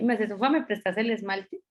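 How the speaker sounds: a lightly voiced gentle, courteous ask; polite request. Coworker asking to borrow nail polish, politely. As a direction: ask nicely for the nail polish, as most people would. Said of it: "es como uno le diría como".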